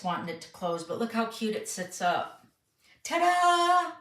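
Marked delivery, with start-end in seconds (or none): 3.0-3.9 ta-da. Real, not acted. Showing off finished card.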